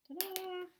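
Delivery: high, sing-song Ta-da!; ta-da reveal. Acted. Teacher revealing the date to her class, playful ta-da. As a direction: present it like a small magic trick.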